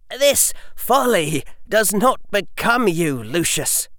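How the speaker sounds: put-on high, cool, measured child; calm rebuke from a boy; composed young boy. A narrator's reading. Harry addresses Lucius.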